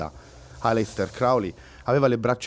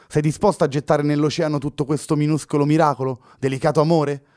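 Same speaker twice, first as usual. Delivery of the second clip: high, louder, pleading lament; Luna sighing; 5 semitones higher, 4 dB louder than usual. A narrator's reading. Girl reminding Fernando of their love, sighing plea. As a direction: plead with a heavy heart. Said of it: "concluse sospirando Luna".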